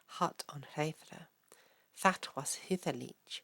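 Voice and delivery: put-on slow, measured Old English recitation; poem recitation. Reading an Old English poem to viewers, measured recitation. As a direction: recite it deliberately, pausing between the half-lines.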